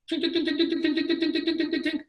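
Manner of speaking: high, quick mimicked slot machine chimes; slot machine tinks. Vegas slot machine paying out, high imitated tinks. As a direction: chime it like a payout.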